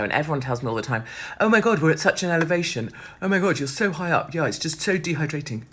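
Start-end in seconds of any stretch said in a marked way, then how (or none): 1.4-5.6 mock American tourist. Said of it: "they don't say it like that 'cause they're American".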